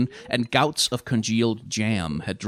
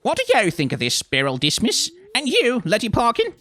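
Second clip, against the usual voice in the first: loud, raised-pitch demand; angry challenge; 5 dB louder than usual. Acted. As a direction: confront each witch by name. Nanny challenges the other witches.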